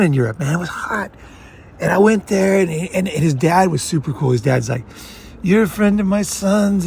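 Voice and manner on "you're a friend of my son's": put-on Italian Godfather accent. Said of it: "I'm doing, like, an Italian thing".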